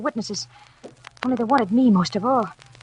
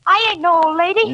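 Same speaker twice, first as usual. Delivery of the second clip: frightened outburst; 6 semitones higher, 5 dB louder than usual. Acted. Lola facing the gangster's gun.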